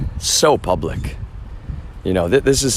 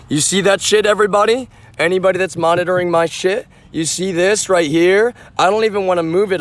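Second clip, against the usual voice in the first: much higher, pushed outrage; outraged showing-off; 8 semitones higher than usual. Real, not acted. Streamer showing viewers the damaged cable, high outraged pitch. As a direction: jab the proof at the camera, pitch way up.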